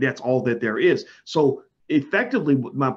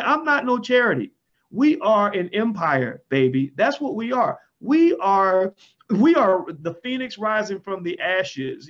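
defiant boast; 4 semitones higher, slower than usual. Pretend. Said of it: "I'm like".

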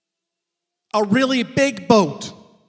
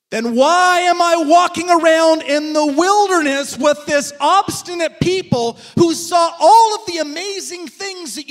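exasperated complaint; 3 semitones higher than usual. Retold or imitated. Moses complains to God.

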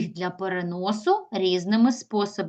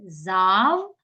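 "Завжди" as Зав, long pause, жди; teacher splitting "Завжди" into Зав... жди; divided for hyphenation; 2 semitones lower than usual. Shown as a demonstration. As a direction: break "Завжди" between в and ж. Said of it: "як можемо поділити".

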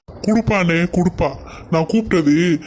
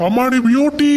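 ear-splitting call; 7 semitones higher than usual. Acted. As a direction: bellow the wife's name so she hears from far off. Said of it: "காது ஓட்டை கிழியிற அளவுக்கு கத்தவாடா".

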